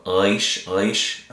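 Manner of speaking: Resh with the r rolled back in the throat; throaty resh. Shown as a demonstration. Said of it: "said in the back of your throat".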